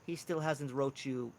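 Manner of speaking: put-on Welsh accent. Mushroom man tells Twyla Lennox hasn't written, hesitant Welsh accent. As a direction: break bad news haltingly, lightly Welsh. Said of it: "He has this harsh Welsh accent".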